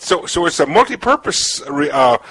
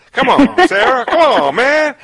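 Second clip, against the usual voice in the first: playful protest; 8 semitones higher than usual. Real, not acted. Host pleading playfully with guest.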